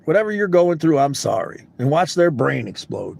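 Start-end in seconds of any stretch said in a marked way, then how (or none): 0.1-1.7 compassionate. Shown as a demonstration. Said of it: "Say it with compassion in your heart".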